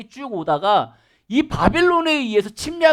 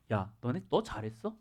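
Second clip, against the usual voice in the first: soft scolding; 4 semitones lower, 9 dB quieter than usual. Retold or imitated. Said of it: "그랬더니 여기서 그러는 거죠".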